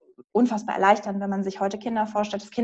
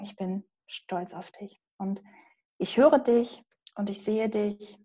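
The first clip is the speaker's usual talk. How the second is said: put-on tender inner-child words; 3 dB quieter than usual. Shown as a demonstration. Coach speaking to the inner child, soft and tender. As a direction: speak gently to a hurt little girl. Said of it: "du sprichst dein Kind einmal an".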